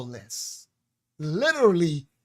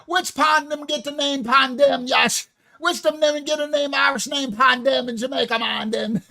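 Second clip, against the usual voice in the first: a loud, laughing try at Jamaican patois; hammed-up Jamaican patois, half shouted; mock Jamaican patois; 5 semitones higher, 3 dB louder than usual. Asking Yasha the question in Jamaican patois. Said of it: "in the Jamaican patois".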